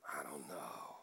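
unvoiced hushed whisper; puzzled whisper to himself. Real, not acted. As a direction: breathe it out, half laughing at yourself. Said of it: "why I'm whispering".

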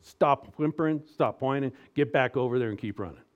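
lightly voiced no-nonsense father; stern dad. Dad sending a whining kid back to run, mildly stern. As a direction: give firm orders like a coaching dad. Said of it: "Dad needs to go".

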